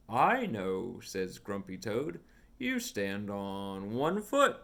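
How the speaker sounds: lively storybook read with voiced characters; reading to children. Reading a picture book aloud to a young child, animated storytime voice. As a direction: read it like storytime for a little one.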